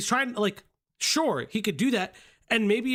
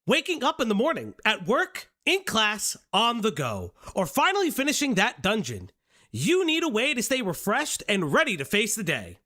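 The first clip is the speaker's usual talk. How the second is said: infomercial voice; 3 semitones higher than usual. Acted. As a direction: sell it like a cheesy TV ad. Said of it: "Why are you doing a Sonic voice?".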